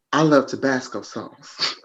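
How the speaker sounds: slow example in an American accent. Shown as a demonstration. Cohost giving an example to mimic, American accent. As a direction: model the American accent slowly. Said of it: "Give me an example".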